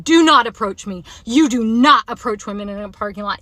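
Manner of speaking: firm, emphatic telling-off, loud at the start; retold yell. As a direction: re-enact scolding a stranger. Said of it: "like, yelling it".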